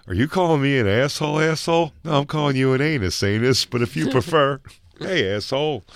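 mock heated movie argument, quoting the film; movie quote. Friend quoting the movie fight to his co-host, mock heated.

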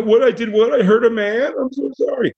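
high, squeaky put-on voice of sudden regret; mock remorseful killer. Brute who beat someone now apologizing, high squeaky voice.

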